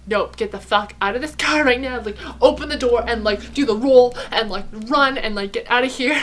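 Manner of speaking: the body screaming get out now, half laughing; urgent inner alarm. Retold or imitated. Body urging escape from car.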